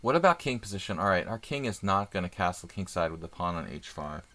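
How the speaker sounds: muffled behind a hand; talking into your hand; hand over mouth. Real, not acted. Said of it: "Talking into my hand doesn't help".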